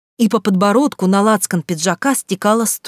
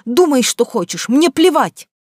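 higher, angry shouted retort; 6 semitones higher than usual. A narrator's reading. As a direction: fling it back at him. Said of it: "крикнула я".

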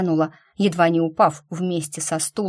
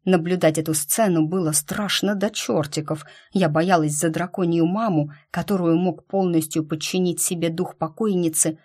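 ordinary delivery

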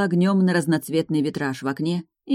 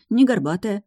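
ordinary delivery

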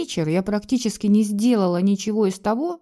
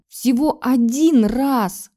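slow, higher, louder mimicry hammering один; mocking repeat; 5 semitones higher, 6 dB louder, much slower than usual. A narrator's reading. Husband mocking his wife's plea, slow sneering echo. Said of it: "с пренебрежением ответил он".

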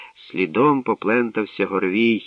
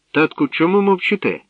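insisting; 10 semitones higher, 4 dB louder than usual. A narrator's reading. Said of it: "наполягала царівна".

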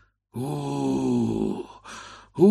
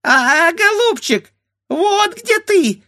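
very high, squeaky mimicking bird voice; squeaky bird beak; 9 dB louder, slower than usual. A narrator's reading. A bird beak mocking the grandfather, squeaking. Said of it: "запищал птичий нос".

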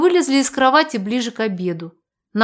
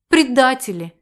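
offended; 3 semitones higher, 3 dB louder than usual. A narrator's reading. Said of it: "обиделась я".

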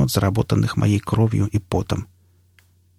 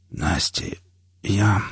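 halting, subdued confession with long pauses; struggling to say it; forced out with difficulty; 4 dB quieter, slower than usual. A narrator's reading. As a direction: squeeze the words out haltingly. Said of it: "с трудом выдавил я".

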